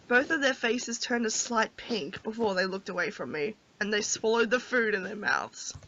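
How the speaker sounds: soft, low-key storybook reading; story narration. A narrator's reading. Player reads the heroine's thoughts, soft story narration. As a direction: read her inner thoughts quietly and evenly.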